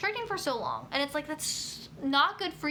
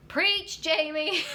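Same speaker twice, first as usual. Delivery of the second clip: excited; 4 semitones higher, 4 dB louder, much slower than usual. Real, not acted. Enthusiastic agreement with viewer.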